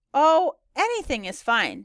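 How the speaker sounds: courteous, drawn-out guest reply; polite. A narrator's reading. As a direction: reassure the host with good manners. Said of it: "said Summer politely to Louisa".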